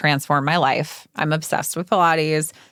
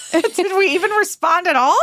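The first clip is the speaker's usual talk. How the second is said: surprised; 11 semitones higher, 4 dB louder than usual. Real, not acted. Surprised at missed message.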